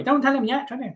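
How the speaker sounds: high-pitched mock northern English moderator; put-on northern English warning; thick northern accent. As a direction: imitate her broad northern English accent, pitched well up. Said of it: "That's how she talks".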